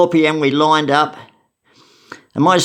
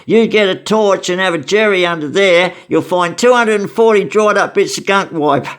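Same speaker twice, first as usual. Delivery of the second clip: mildly acted cellmate, higher pitched; a slightly higher voice for a mate's rant; handcuff mate; 5 semitones higher than usual. Handcuff mate warning about gunk under the seats, lightly acted. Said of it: "my handcuff mate said".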